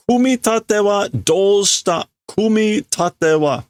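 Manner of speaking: high, demanding question; angry demand. Acted. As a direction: press him hard from high up. Workers demand why no assembling.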